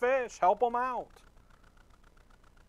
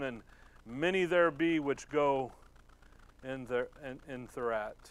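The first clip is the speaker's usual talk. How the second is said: scripture reading. Acted. Reads scripture passage slowly.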